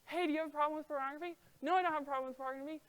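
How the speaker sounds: rattled off fast, as a throwaway check-in; quick brush-off exchange. Pretend. Mock couple dashing through the porn question fast. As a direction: rush through it like ticking a box. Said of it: "Please don't fall into the trap of".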